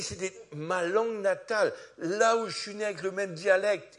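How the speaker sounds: high and loud, still marvelling; astonished. Retold or imitated. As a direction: keep the amazement going. Student explaining, still astonished.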